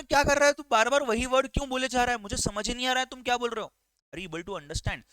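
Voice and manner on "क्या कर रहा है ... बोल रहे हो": frustrated student. Pretend. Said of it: "आप बोलोगे".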